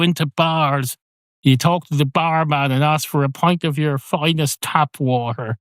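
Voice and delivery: rising hammed-up indignation; mock indignant. Barman berates cat.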